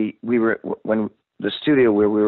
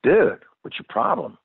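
mild mock annoyance; 5 semitones higher than usual. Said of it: "he was, like, pissed".

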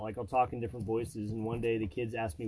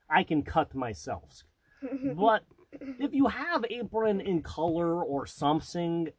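put-on much higher, slow, broken-English Russian accent; Mishka Mishka voice; 3 semitones higher, slower than usual. Asking a store clerk for an apron, in a thick mock Russian accent. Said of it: "Mishka Mishka is a mixture of".

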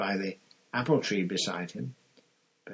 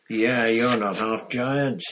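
croaky; 7 dB louder, slower than usual. Acted. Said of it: "said Hagrid croakily".

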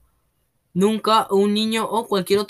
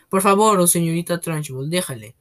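pleading. Acted. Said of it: "suplicó la señorita Honey".

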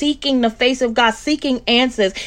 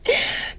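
teary laugh; 8 dB quieter than usual. Real, not acted. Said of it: "It's making me emotional".

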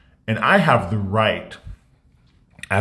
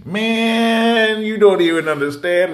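much higher and louder, exclaiming; exasperated outcry; 11 semitones higher, 4 dB louder, slower than usual. Real, not acted. Telling viewers about childhood, high exasperated outcry. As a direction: burst out high with feeling.

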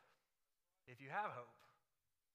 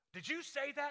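startled burglar; 7 semitones higher, 4 dB louder than usual. A narrator's reading. Startled burglar questions parrot.

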